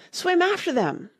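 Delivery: very high-pitched cry, modest volume; mild scream. A narrator's reading. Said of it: "screamed the Gryphon".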